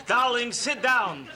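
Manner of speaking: hammed-up elderly storyteller; old-timer. Father feeling old, telling daughter about a band, hammed-up elder. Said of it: "you feel this old, liver spots".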